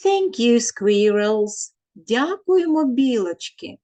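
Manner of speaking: put-on children thanking the squirrels; voicing the children. Children's chorus, teacher voices it.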